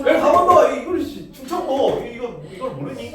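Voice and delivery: high, loud laughing exasperation; laughing disbelief. Real, not acted. Student misses an easy answer. (웃으며 어이없어하는 말투)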